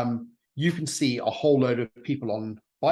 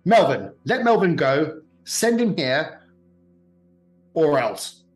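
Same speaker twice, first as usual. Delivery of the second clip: louder villain ultimatum, rising toward the end; threatening villain; 5 dB louder than usual. Acted. Razzia threatens the party over the screen, menacing. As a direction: lay down the ultimatum. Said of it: "Razzia says".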